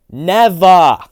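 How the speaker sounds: high defiant shout. Acted. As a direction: refuse with full force. Defying his clone.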